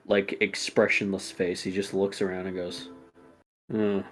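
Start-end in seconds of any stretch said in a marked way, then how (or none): 3.7-4.0 bored tired man. Acted. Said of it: "tired as hell with just a bored".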